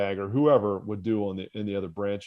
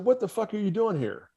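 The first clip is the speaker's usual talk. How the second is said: mock angry instructor; 10 semitones higher than usual. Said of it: "He said".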